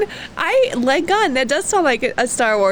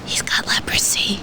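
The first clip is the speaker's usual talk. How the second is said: hushed whisper; 4 dB quieter than usual. Real, not acted. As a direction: whisper it like grim news. Gloomy news about a character.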